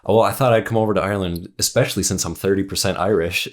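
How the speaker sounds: mock proud brag, fast; proud American tourist. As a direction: gush it out like a tourist proud of her roots. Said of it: "she was just so proudly like".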